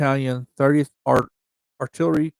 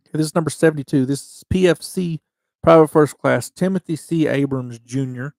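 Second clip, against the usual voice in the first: louder, over-eager announcement; too excited; 5 dB louder than usual. Real, not acted. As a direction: read the name out with too much excitement. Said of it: "I might just get too excited".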